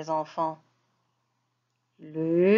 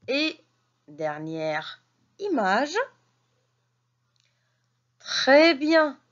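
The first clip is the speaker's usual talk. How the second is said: reading lesson voice. Acted. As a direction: sound out each syllable for little ones. Teacher reading lesson to children.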